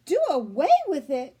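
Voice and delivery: put-on a girl shrieking at her mother. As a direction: shriek it out in disbelief. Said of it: "shrieked Fern".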